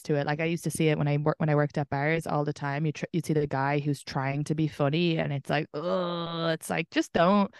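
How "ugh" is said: drawn-out mock "ugh"; disgusted groan. Bar worker watching someone force a joke, mock disgusted groan. Reacting to man trying too hard.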